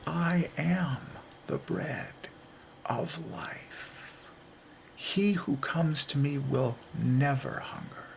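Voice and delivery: hushed, slow whispered scripture; whispered quote of Jesus to the listener; reverent whisper. Acted. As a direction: breathe the words of Jesus like a secret.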